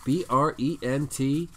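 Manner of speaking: lightly voiced radio host plug; radio guy voice. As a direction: read it like a radio DJ. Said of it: "sound like a radio guy".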